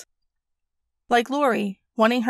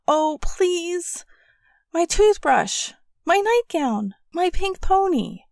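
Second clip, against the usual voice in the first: put-on high, slow tearful child wail; whining near tears; 8 semitones higher, slower than usual. A narrator's reading. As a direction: beg on the edge of crying. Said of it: "bottom lip began to quiver".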